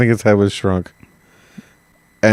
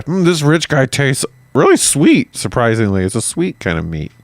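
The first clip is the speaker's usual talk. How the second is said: savoring cannibal; 5 semitones higher than usual. Retold or imitated. Voicing a cannibal tasting.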